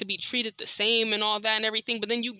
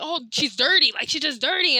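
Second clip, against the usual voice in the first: grandma's complaint; 5 semitones higher than usual. Retold or imitated. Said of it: "She's like".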